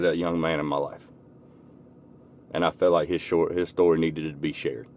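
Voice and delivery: low, soft, humbled delivery; heartfelt reflection. Real, not acted. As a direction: speak quietly, sincerely moved. Moved confession at story's end.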